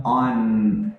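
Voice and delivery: on ending with the tongue touching the front teeth; slow on finishing on a firm N; clear final N. Shown as a demonstration. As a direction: land on the teeth for the N in on. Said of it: "terminar com a língua no dente".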